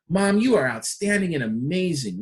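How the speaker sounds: energy behind the praise; emphatic praise for mom; strong emphasis at the end. Shown as a demonstration. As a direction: stamp it with approval. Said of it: "really strong emphasis at the end".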